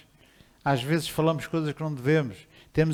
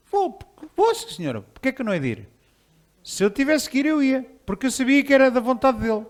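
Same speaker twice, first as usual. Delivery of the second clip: higher-pitched, willing yes; eager reply; 8 semitones higher than usual. Retold or imitated. Believer answering God's call to go, eager. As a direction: answer readily, pitch jumping up.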